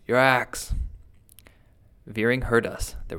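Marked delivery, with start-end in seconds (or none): 0.1-0.7 higher, urgent cry; urgent cry to the parson. A narrator's reading. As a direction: call out the order again. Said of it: "cried Wikes".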